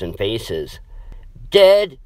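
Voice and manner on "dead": high, loud shocked cry; shocked, almost screaming; near scream. Acted. Maddie hears her friend is dead, nearly screaming. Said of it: "Maddie nearly screamed".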